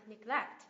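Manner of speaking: "neglect" with weight on GLECT; second-syllable stress. Shown as a demonstration. Teacher repeating "neglect", stress on second syllable. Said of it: "Nhấn tiếp thứ hai".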